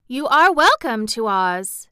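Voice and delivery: gracious royal welcome, voice lifted; a young ruler's gracious greeting. A narrator's reading. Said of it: "in gracious accents".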